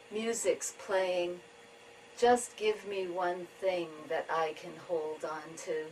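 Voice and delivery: measured tanka reading with pauses between lines; poetry reading. Acted. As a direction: read each image slowly, letting it settle. Reads own tanka.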